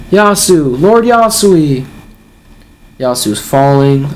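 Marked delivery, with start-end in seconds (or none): 0.1-1.8 higher-pitched mock cry of alarm, drawn out; mock yelling. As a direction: imitate townsfolk calling out to their lord, without full volume. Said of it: "People are yelling".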